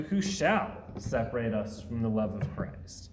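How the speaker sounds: bold, certain rhetorical question; confident. Shown as a demonstration. Preacher showing the verse read in triumph, confident and excited. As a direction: ask it knowing no one can. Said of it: "Or do we approach this in confidence and excitement?".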